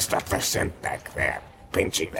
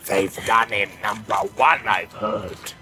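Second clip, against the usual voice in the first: furious orc rant; 6 semitones higher than usual. Acted. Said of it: "his voice was full of fear and rage".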